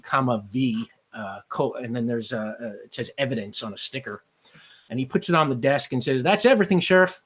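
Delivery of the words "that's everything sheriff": Southern deputy. Acted. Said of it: "I'm making them Southern".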